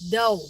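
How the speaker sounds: "Dough" standing in for door, no final r; country "dough" for door. Shown as a demonstration. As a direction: say door as a plain "Dough", r dropped. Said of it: "not the door".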